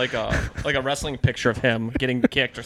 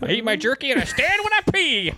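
macho tough guy; 12 semitones higher than usual. Acted. Keeps the macho bit going.

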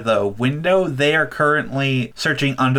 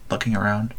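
ordinary talk, nothing marked

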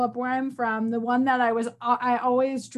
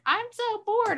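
higher, mock-whining kid; whiny bored son; 10 semitones higher than usual. Son complaining about going outside, mock whine. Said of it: "he's like".

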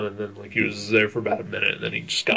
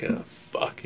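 dread whisper; 11 dB quieter than usual. Retold or imitated. Sudden dread in theater.

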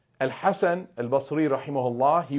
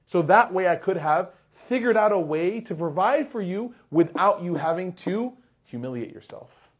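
a touch of tearful remorse, voice rising with the regret; lightly voiced grieving neighbor pleading his own fault; tearful confession; 3 semitones higher than usual. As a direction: retell it like a man near tears, blaming himself. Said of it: "He started crying in front of his neighbor".

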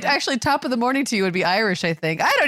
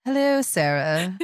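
mock formal greeting; slower than usual. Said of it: "I should have said".

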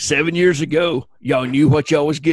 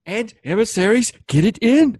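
excited; 8 semitones higher, 4 dB louder than usual. Pretend. Excited cheer.

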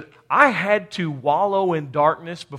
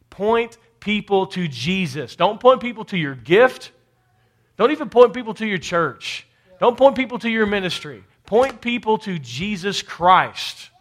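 emphatic preaching; 3 semitones higher than usual. Real, not acted. Preacher charging the church to point to Jesus, emphatic. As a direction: urge the congregation firmly.

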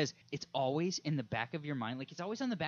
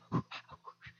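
sharp breathless gasp; a quick voiceless gasp; excited gasp; 3 dB quieter than usual. Retold or imitated. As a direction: gasp as if remembering.

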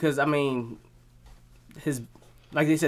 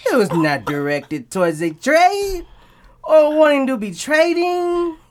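sports agent voice; 5 semitones higher than usual. Pretend. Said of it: "You an agent, a sports agent".

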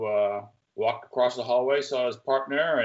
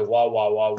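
wah-wah noise of unheard speech; imitated muffled talk; 6 dB louder than usual. Doctor talking behind soundproof glass doors, imitated wah-wah. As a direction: mimic a voice droning unintelligibly. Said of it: "you're not hearing anything".

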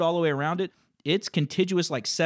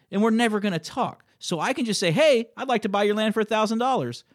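a worked-up lecture to a rude caller; 5 semitones higher than usual. Retold or imitated. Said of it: "that one got to me".

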